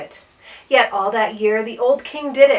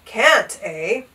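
angry; 4 dB louder than usual. Acted. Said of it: "flew into a terrible rage".

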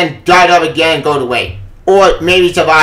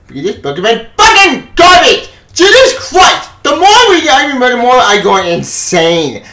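angry outburst; 5 semitones higher, 4 dB louder than usual. Real, not acted. Ranting about the comic.

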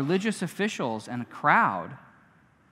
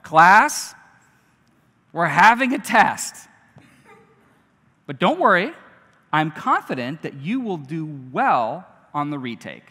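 teacher voice; 6 dB louder than usual. Pretend. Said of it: "It's like".

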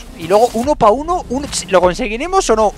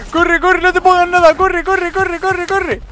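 frantic urging; 9 semitones higher, slower than usual. Real, not acted. Gamer fleeing a troll, urging himself, panicked. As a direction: urge yourself on in a panic.

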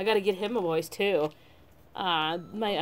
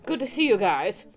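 chill surfer, happy reunion; surfer dude voice; 2 semitones higher than usual. Acted. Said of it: "the surfer dude voice".

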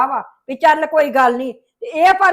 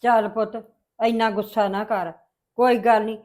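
soothing; 5 semitones lower, 3 dB quieter than usual. Acted. Mother calming her angry son.

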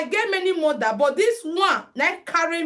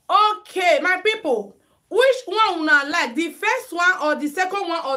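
raised call to the viewers; louder, up high, rally the live audience; 3 semitones higher, 4 dB louder than usual. Real, not acted. Vlogger calling out loud to her live viewers.

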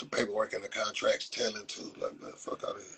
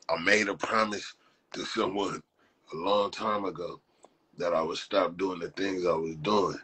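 Denzel Washington. Pretend. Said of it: "I'm like the equalizer. Like, let you say equalizer. Denzel Washington".

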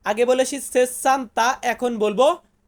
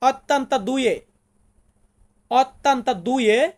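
slow, syllable by syllable; slow demo; much slower than usual. Shown as a demonstration. Teacher sounds out an Italian number for students, slowly. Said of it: "ইতালিতে বলবো".

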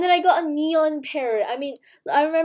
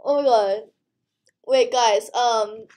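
excited; 3 semitones lower, 4 dB louder than usual. Real, not acted. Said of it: "I'm just so excited".

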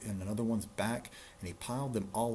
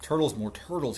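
loud, raised kingly bellow; 6 semitones higher, 7 dB louder than usual. Acted. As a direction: bellow the order across the pond. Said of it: "he bellowed and brayed".

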